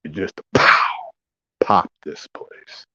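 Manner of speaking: slow hushed pow and pop; slow hushed whisper. Acted. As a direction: breathe the words out slowly. Whispered pop sound story.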